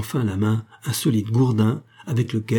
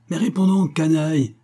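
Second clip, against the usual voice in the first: howled order; 6 semitones higher than usual. Acted. Guard howling at the missing convict, furious yell. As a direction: roar at the silent convict. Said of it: "hurla le porteur du bâton".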